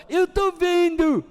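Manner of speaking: high, slow, loud cooing voice; doting grandpa's baby talk. Retold or imitated. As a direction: coo playfully at a tiny grandchild. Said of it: "tem que mudar a voz quando fala comigo". (voz de vovô falando com bebê)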